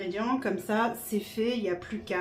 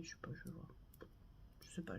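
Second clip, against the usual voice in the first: whispering; 6 semitones lower, 25 dB quieter, much faster than usual. Real, not acted. Muttering undecided to herself.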